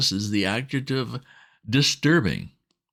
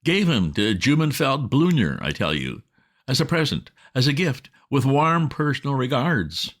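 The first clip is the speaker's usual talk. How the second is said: put-on agitated young master; 6 semitones higher than usual. A narrator's reading. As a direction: splutter the news at the butler. Bertie agitated to Jeeves.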